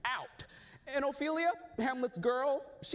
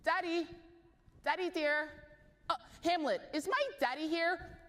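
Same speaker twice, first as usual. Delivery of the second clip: put-on much higher girlish calling; calling daddy; 9 semitones higher than usual. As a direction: call out like a worried daughter. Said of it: "Ophelia calling".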